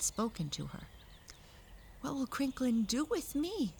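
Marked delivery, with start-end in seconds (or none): 2.0-3.7 put-on higher-pitched worried girl's question; anxious captive girl. A narrator's reading. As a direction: ask it high and anxiously. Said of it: "she asked anxiously".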